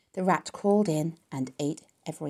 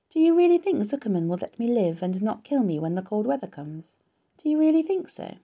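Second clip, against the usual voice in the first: anxious asking; 5 semitones higher, 4 dB louder than usual. Acted. Wilbur anxious about being killed.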